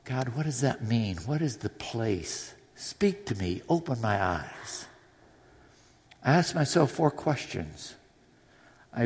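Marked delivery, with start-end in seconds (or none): 0.0-4.9 soft prayer. Shown as a demonstration. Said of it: "I might read that and say".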